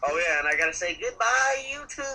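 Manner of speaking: loud, high shouted goodbye; excited shout. Real, not acted. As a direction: yell it out to your viewers.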